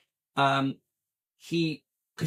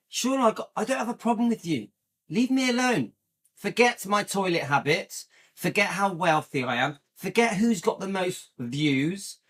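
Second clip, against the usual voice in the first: raised pitch, quick exasperated scolding; retold telling-off; 3 semitones higher than usual. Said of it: "like I said yesterday to Shauna".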